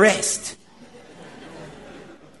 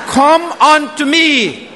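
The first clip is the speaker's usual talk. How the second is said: voice of Jesus calling; 3 semitones higher than usual. Retold or imitated. Preacher voicing Jesus calling sinners, fervent raised call. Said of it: "you hear the voice of Jesus say".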